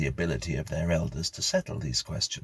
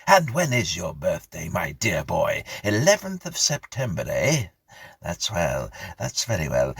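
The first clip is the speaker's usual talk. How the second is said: put-on overeager old squire; 3 semitones higher, 5 dB louder than usual. Mr Abney questioning eagerly.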